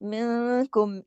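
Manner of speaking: मिनकुम slow with the न half hidden in the nose; slow Quranic reading of मिनकुम; hidden nasal. Shown as a demonstration. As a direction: recite मिनकुम slowly, muffle the न. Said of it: "ये इख्फा हकीकी हुआ".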